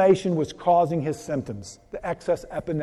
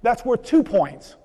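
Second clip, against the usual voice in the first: higher, slow, beaming praise; cheery Saint Peter; 6 semitones higher, slower than usual. Retold or imitated. Saint Peter congratulating the accountant, slow and beaming. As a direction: stretch out the delight like a proud gatekeeper. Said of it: "And he says".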